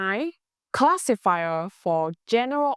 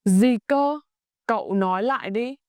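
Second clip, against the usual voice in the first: casual surprised ask; 3 semitones higher than usual. Shown as a demonstration. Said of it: "very casual".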